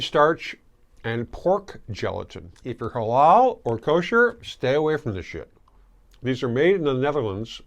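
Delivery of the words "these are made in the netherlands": talking around a gummy in the mouth; words mushed by a mouth full of candy. Real, not acted. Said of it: "I can't even talk, I've got the gummy in my mouth".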